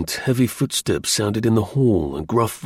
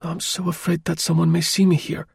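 voiced higher, urging him on in worry; anxious plea to keep driving; apprehensive urging; 7 semitones higher than usual. A narrator's reading. Woman urging the driver not to stop, apprehensive.

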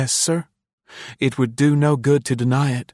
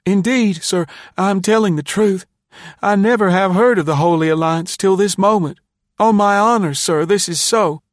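put-on high, loud boy pleading to be believed; earnest high-pitched pleading; desperate protest; 13 semitones higher, 6 dB louder than usual. A narrator's reading. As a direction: protest innocence in a high, distressed voice. Boy desperately protests his innocence.

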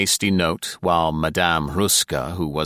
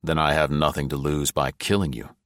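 grim; 2 semitones lower than usual. Acted. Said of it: "Claffey said grimly".

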